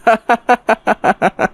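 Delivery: high, gloating trickster chuckle; sly laugh. Acted. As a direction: chuckle at your own clever trick. Trickster gloats after his ruse. (ধূর্ত খুশির হাসি)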